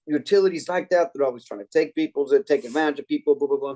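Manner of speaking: mildly heated mock complaint; retold fired-up rant. Customer going off about the utility, mildly fired-up imitation. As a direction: imitate a customer getting worked up. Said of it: "he started just going off".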